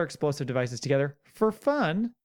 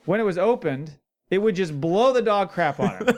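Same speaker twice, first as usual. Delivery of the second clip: quoting through laughter; laughing while quoting; 4 semitones higher, 4 dB louder than usual. Retold or imitated. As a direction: read the quote, laughing.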